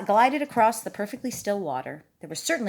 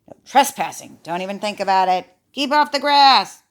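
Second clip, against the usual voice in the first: loud, emphatic sign reading; stern warning; 7 dB louder than usual. Acted. Reading Mister Duck's warning sign to a child, stern and loud. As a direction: build to a firm, loud order.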